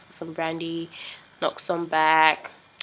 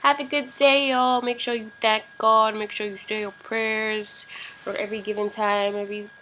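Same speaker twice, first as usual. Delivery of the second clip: strong Nigerian accent; 3 semitones higher, 3 dB louder than usual. Real, not acted. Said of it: "doing the Nigerian thing too much".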